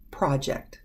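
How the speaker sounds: "project" as PRAH-ject, the noun; ah sound. Shown as a demonstration. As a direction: open "ah" in the first syllable of "project". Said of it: "to give the ah sound".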